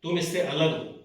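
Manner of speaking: lightly meditative, with long pauses between instructions; guided meditation. Acted. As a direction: guide listeners into watching the breath, unhurried. Leads a breathing meditation. (ध्यान कराते हुए, ठहर-ठहर कर)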